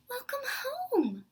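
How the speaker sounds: high, slow tearful whisper; crying. Acted. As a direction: sob out the greeting, close to tears. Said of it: "she's feeling really sad".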